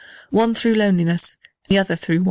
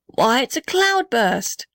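slow, raised shout over the storm; 5 semitones higher, slower than usual. Acted. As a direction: call out over the pouring rain. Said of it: "shouted the blue gum".

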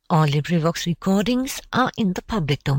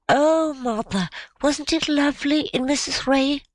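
put-on delighted child; 8 semitones higher than usual. A narrator's reading. Child exclaiming over the party.

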